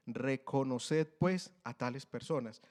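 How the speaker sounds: Reconoced drawn out slowly, then pues, a tales personas; slow down to make it sink in; slow, emphatic reread. Shown as a demonstration. Preacher rereads the verse to the church, slow and weighty. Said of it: "Le leo nuevamente ese pedazo".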